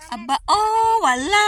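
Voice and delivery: high-pitched, drawn-out surprise; surprised exclamation. Real, not acted. Vlogger sees nobody behind on the trail, surprised. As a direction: pitch leaps up in amazement.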